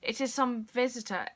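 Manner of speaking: measured poetry reading with pauses between phrases; understated dramatic poem reading; poem recitation. Acted. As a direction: recite the verse line by line. Reads a poem aloud.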